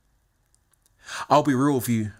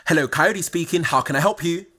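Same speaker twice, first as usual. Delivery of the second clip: put-on posh British accent; 3 semitones higher than usual. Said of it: "in the most posh British accent that I possibly could do".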